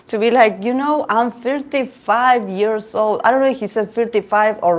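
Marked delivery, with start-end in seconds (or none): 0.6-3.2 slow, higher-pitched mock pleading; imitated tearful plea. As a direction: act out a desperate confession. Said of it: "The guy cried".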